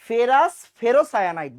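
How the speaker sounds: each part said slowly and loudly; slow careful naming. Shown as a demonstration. Teacher drilling students on a compound name, slow and firm. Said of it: "দেখো, ফেরাস".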